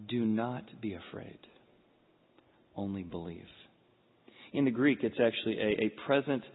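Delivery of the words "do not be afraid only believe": low, soft and measured; earnest reassurance. Acted. Jesus to the grieving synagogue ruler, earnest reassurance. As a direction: reassure quietly, with weighty pauses. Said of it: "looking him in the eye and say".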